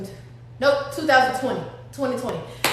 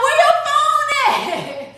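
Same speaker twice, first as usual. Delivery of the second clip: high daughter voice; 11 semitones higher, slower than usual. Retold or imitated. Daughter asks for phone.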